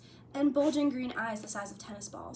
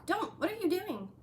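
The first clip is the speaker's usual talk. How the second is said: hissed; 9 semitones higher, 4 dB louder than usual. A narrator's reading. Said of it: "Harry hissed".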